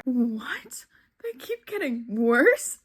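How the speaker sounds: breath-caught what, then a rising question; incredulous dismay. Real, not acted. Reader hearing the books get worse, incredulous dismay. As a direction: echo it back in disbelief. Shocked reaction to commenter's warning.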